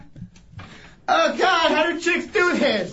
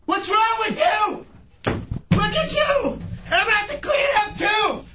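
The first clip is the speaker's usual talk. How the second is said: angry yelling; 5 semitones higher than usual. Real, not acted. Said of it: "Stop yelling".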